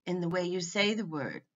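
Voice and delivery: ordinary talk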